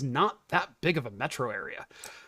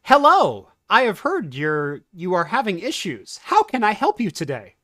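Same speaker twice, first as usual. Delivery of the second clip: chirpy call agent Susie; 3 semitones higher than usual. Pretend. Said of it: "Now transferring to Susie".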